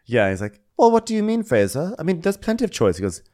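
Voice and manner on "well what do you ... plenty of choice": high, louder mocking Jake voice. Co-host mocking Jake's reply to Fraser, high and loud. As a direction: ham up the clueless guy, higher and louder.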